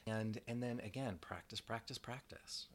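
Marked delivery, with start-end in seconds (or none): 1.2-2.7 each practice softer, down to a whisper; fading repetition. Real, not acted. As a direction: let practice fade to a breath. Repeating word, fading.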